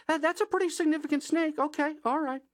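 nervous reaction. Retold or imitated. Host reacting to the size of the neighbor's snake, nervous and quick. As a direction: talk yourself into it quickly.

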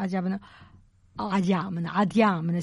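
Adriana said as adjamana, dropping the r; dialect Adriana. Shown as a demonstration. To the listener, the dialect name Adriana.

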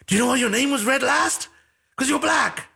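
teasing friend. Retold or imitated. Friend teasing about award.

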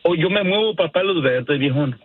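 ordinary talk

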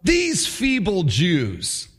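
drawn-out, very slow taunting sneer; slow mock name-calling. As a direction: stretch out the insult like a schoolyard bully. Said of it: "He says".

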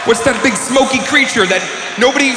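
exasperated rant; fed-up fan at a commercial break; frustrated viewer. Retold or imitated. Himself watching Lost, exasperated rant. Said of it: "quick impression of me watching Lost".

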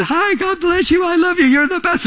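high, syrupy fake-friendly greeting; fake sweetness. A phony churchgoer gushing at someone, high and sugary. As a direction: gush falsely nice over someone you dislike.

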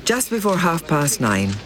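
measured, scripted presenter read; documentary link read to listeners; news documentary narration. Acted. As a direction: narrate the events as a serious news account.

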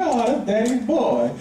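put-on slow, fond baby talk; gentle doting father; tender dad. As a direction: coo at the baby. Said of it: "I'm like".

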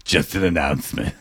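low-pitched deadpan announcement; mock announcer. Warning theatre patrons about their grandmother, mock announcer. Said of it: "What if you got in and was like".

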